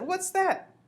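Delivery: high, loud astonished question; startled question. A narrator's reading. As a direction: ask it in shrill amazement. Startled driver spots a mouse.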